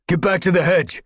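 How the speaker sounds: shouted command to retreat. A narrator's reading. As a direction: order them back to safety. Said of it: "Hawkfrost commanded".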